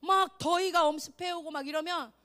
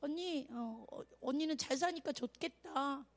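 small, soft, lower voice; mock intimidated younger girl, hesitant and quiet; cowed; 4 semitones lower, 11 dB quieter than usual. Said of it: "이축 돼가지고".

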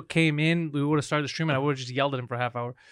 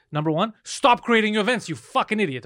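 higher, firm retort settling back down; retold exasperation; 5 semitones higher than usual. Host retelling his phone scolding, exasperated. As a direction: retell an exasperated order to a hopeless friend. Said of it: "I'm pissed".

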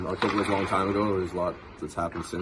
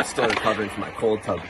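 shivering, laughing, louder; 4 semitones higher, 7 dB louder than usual. Real, not acted. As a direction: talk through shivers from cold. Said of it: "sorry if I'm shivering".

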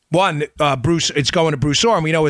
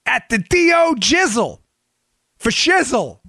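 mock slang voice; 11 semitones higher than usual. Mock slang riff on DOJ.

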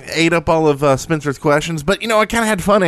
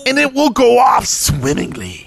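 silly high voice; 8 semitones higher than usual. Acted. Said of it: "I will talk like this".

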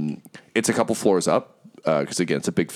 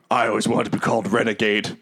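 higher, fast boastful brute; thug voice; 4 semitones higher, faster than usual. Acted. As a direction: puff up like a meaty brawler. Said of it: "And he's like".

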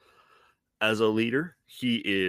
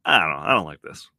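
put-on a touch of old curmudgeon, low and loud; grumpy curmudgeon; 4 semitones lower, 4 dB louder than usual. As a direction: grumble it like a mild curmudgeon. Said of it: "the curmudgeon in me that says".

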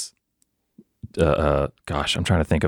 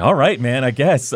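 amused, laughing shrug; 5 semitones higher than usual. Retold or imitated. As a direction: laugh through the words. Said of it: "I'm just like".

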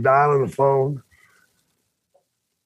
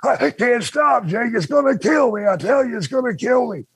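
put-on high panicky drunk pleading; drunk whining; 8 semitones higher than usual. Drunk Terry whining about hiccups.

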